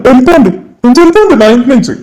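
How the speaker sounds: fast, harsh order to get out; angry eviction. Acted. Creditor driving the family from the house, fast angry order. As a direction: throw them out of the house.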